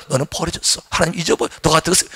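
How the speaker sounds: quiet, low accusing voice; soft, low condemning voice. Retold or imitated. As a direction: whisper the lie of rejection. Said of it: "비난 음성".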